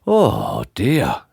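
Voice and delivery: kindly tramp, gently concerned. A narrator's reading. Kindly tramp finding someone fainted, gently concerned. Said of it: "he was a kindly tramp".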